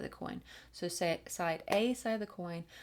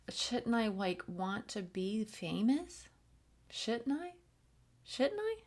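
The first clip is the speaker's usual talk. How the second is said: higher, doubting inner voice, rising to a squeak at the end; nagging inner voice; 3 semitones higher than usual. Acted. The singer's inner doubt asks if she should want more, higher and rising. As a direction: play the little voice of self-doubt, climbing higher. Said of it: "in the background going".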